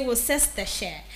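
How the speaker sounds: Worcestershire said WIS-es-tuh-sheh; Worcestershire with the middle ces sounded; common mispronunciation. Shown as a demonstration. Host imitating another error, middle syllable sounded. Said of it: "Some people will say".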